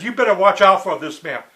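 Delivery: mock urgent warning to her; a half-voiced Bill warning her to watch out; Bill's warning.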